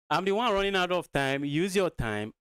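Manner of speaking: high, loud protest over the clock; exasperated outburst. Real, not acted. Exasperated at opponent while short of time.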